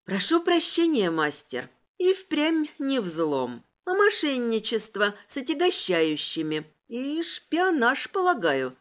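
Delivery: sweetly innocent, mock polite. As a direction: feign innocence. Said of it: "Я невинным тоном закончила".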